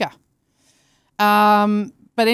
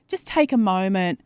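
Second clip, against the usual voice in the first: calm watch voice. Retold or imitated. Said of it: "and then it goes".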